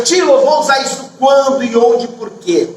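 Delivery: lightly voiced questioning student; imitated pupil. Teacher voicing what a pupil thinks, lightly imitated student. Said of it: "Às vezes o aluno pensa".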